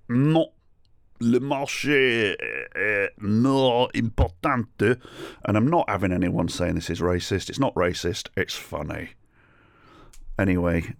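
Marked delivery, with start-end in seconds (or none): 0.1-5.0 higher, very drawn-out French refusal; hammed-up French stallholder; mock French accent. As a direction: stretch it out like a self-important French trader. Imitating stubborn French stallholder.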